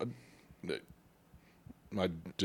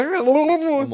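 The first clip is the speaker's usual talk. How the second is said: laughing; 7 dB louder than usual. Real, not acted. Laughing at own stumble.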